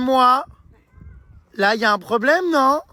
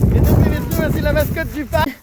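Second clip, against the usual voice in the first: mock announcer; 3 semitones higher, 4 dB louder than usual. Announcing the park mascot.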